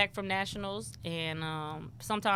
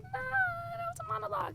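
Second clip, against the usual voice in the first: dismissive brush-off; 7 dB quieter than usual. Retold or imitated. Brushing off the poet label.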